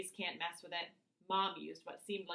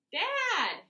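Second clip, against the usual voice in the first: high, loud cry cutting him off; exasperated shout; 11 dB louder than usual. A narrator's reading. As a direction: cut dad off loudly. Interrupting dad's rambling.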